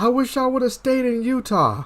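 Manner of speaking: mock, high, yelled call-out. Checking on a woman crying in her car, the speaker retells her yell. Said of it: "She just yells out".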